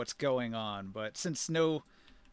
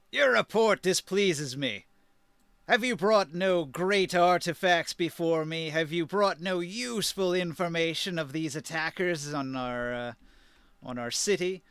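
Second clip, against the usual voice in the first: booming arrogant overlord. Acted. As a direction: boom it down from a throne. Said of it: "a booming voice".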